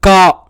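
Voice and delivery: का said as ka with a long aa, slightly stressed; syllable demo. Shown as a demonstration. Teacher shows pupils how का sounds, clear and drawn out. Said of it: "तो उच्चारण हो जाएगा".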